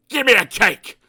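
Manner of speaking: loud, rude order; snapped. Acted. Mister Grumpy ordering the butcher about, loud and rude. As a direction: bark at the butcher. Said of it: "snapped Mister Grumpy".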